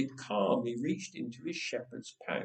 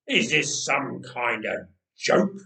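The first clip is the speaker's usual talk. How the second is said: giant muttering; 4 semitones lower, 4 dB louder than usual. Acted. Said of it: "he muttered to his shield bearer".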